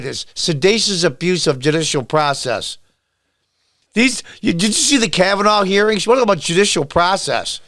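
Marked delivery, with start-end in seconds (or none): 3.9-7.6 exasperated outburst. Real, not acted. Ranting, pitch jumps up.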